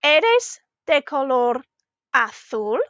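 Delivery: slow "Eres de color azul", pausing before "azul" and turning up at its end; "Eres de color azul" with an upturn on the last syllable; rising question. Shown as a demonstration. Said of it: "our voice was going up at the end".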